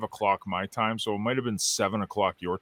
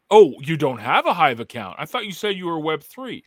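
mocking; 4 semitones higher, 4 dB louder than usual. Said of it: "I kinda wanted to go".

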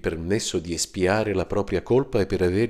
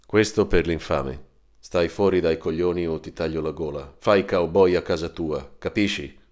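menacing caller. Acted. Threatening caller on the phone.

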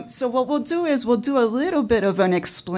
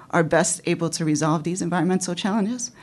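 out of breath; 3 dB quieter than usual. Real, not acted. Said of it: "I'm a little out of breath".

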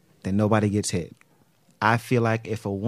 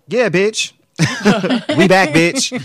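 hyped and loud; 8 semitones higher, 6 dB louder, slower than usual. Real, not acted. Returning from break, hyped.

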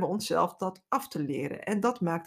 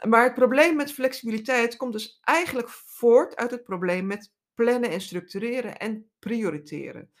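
ordinary delivery

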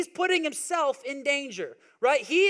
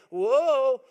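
put-on toddler voice; 6 dB louder than usual. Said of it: "'cause it'd be like".

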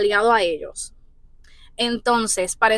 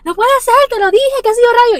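stunned disbelief; 12 semitones higher, 5 dB louder than usual. Retold or imitated. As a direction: squeal in disbelief like it's a miracle. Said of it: "Y yo le digo".

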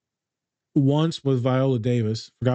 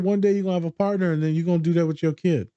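high encouraging voice; 5 semitones higher than usual. Retold or imitated. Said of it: "I said".

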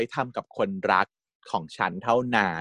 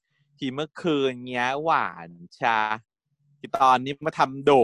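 mild sulk; 2 semitones higher than usual. Retold or imitated. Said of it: "งอนนิดๆ".

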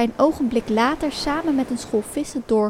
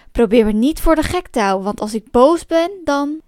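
louder, mildly threatening; angry warning; 4 dB louder than usual. Acted. Man warns puppet not to fool him, angry warning. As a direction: act out a cross man's warning.

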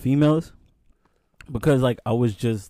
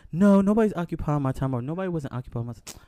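higher-pitched retold denial, easing down; acted-out insistent reassurance; mock protest; 5 semitones higher than usual. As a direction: imitate her hurrying to deny it. Acting her quick protest.

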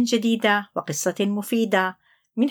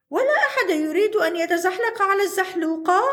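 bored to himself; 9 semitones higher, faster than usual. Acted. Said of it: "قال عنتر في نفسه".

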